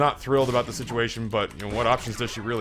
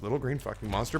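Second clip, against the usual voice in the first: hushed, softer secretive delivery; mock whisper; 7 dB quieter, faster than usual. Doctor showing husband the secret command, hushed. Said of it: "he whispers so it can't hear".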